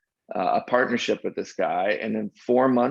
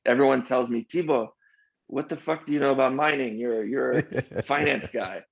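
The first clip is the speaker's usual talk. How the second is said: higher-pitched hint of a French accent; mock-incredulous retelling with a slight French accent; 4 semitones higher than usual. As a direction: quote the French friend, lightly accented. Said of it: "I'll do my best French accent here".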